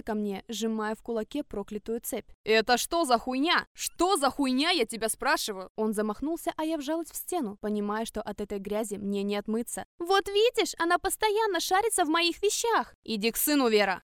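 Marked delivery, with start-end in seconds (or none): 2.4-3.7 loud angry question; husband confronts the girl, furious; furious demand. Acted. Husband furious at found chain. 3.7-5.7 loud, rising angry repeat; husband presses the girl, furious; repeated furious demand. Acted. 10.0-12.9 very high, loud gloating accusation; wife gloats to her husband, high and loud; triumphant complaint. Acted. 13.0-14.0 loud sharp command; husband orders his wife away, loud; stern order. Acted.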